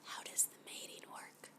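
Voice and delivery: breathy near-silent whisper, very soft; hushed whisper. Acted. Captive asks her alien captor about mating, in a hushed whisper. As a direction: ask it like a secret you're embarrassed by.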